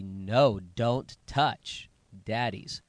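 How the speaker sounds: deliberate, firm father's warning; firm parental command. Retold or imitated. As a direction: lay down the rule to a toddler, slowly.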